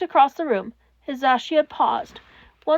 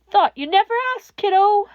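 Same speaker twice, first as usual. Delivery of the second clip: grinning Hisashi; 7 semitones higher, 5 dB louder than usual. A narrator's reading. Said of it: "Hisashi had grinned".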